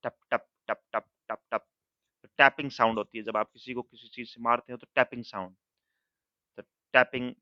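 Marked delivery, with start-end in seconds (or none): 0.0-1.7 imitating tapping. Shown as a demonstration. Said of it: "shutter को बजाया".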